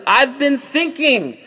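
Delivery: high, drawn-out announcement; mock pronouncement. Joseph returns to the jailed brothers, mock pronouncement. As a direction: stretch it out slowly, pitched well up. Joseph delivers his verdict.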